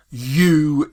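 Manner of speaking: "you" drawn out with full stress; stressed word. Shown as a demonstration. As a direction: lean on "you" and hold it. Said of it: "a word that you would stress".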